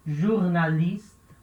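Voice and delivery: careful teacher demo of "jornalista"; slow model word. Shown as a demonstration. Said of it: "Letra G vai ter som de J".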